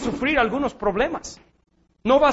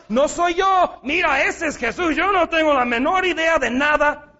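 Peter's panicked denial; 3 semitones higher than usual. Acted. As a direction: push the blame away in a panic. Peter denying Jesus, acted quote.

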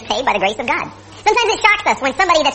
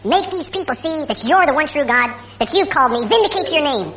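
slow, measured plea to God; simple prayer; slower than usual. Retold or imitated. Prophet asking God to show himself, simple prayer. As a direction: pray it plainly, taking your time. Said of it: "he prayed a very simple prayer".

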